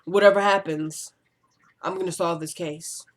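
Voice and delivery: lightly imitated TV detective, softening at the end; mock detective vow, trailing down quietly; a hint of smooth cop. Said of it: "how the detective would do".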